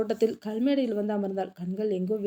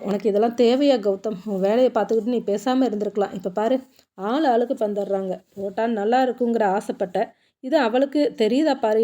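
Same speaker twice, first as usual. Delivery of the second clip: louder, grumbling self-reproach; scolding himself; 3 dB louder than usual. Acted. Gautam walking off, scolding himself louder. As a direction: scold yourself as you walk away. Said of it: "என்று திட்டியபடியே நகர்ந்தான்".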